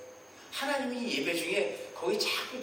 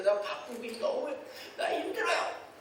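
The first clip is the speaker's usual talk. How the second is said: slow, then a high whining plea; wheedling complaint, pitch jumping up at the end; whiny tantrum; 6 semitones higher, slower than usual. Acted. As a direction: throw a childish tantrum at God. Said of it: "생떼라 그러죠".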